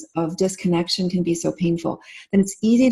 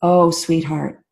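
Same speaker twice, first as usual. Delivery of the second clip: a hint of a mother soothing her child; tender reassurance. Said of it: "respond with that attunement of".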